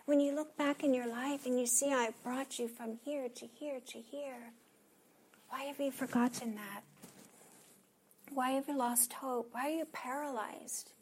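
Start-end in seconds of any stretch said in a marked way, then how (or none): 1.9-10.9 tender questioning. Acted. Continues God's gentle questions.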